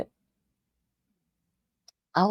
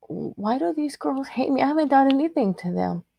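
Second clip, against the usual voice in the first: retold crying; 7 semitones higher than usual. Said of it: "I would cry".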